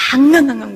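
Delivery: retold loud crying noise; imitated wailing. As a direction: voice a child's wail in words. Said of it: "울었습니다".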